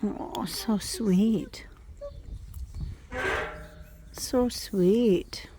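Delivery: slow tender whisper. Real, not acted. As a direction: breathe it out adoringly. Whispering adoringly at foal.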